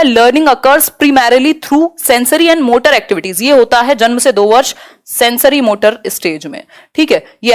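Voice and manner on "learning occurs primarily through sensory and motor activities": each word of the English option spelled out slowly; slow option read. Acted. Teacher reads answer option one to students, slow and careful. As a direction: read it out like dictation.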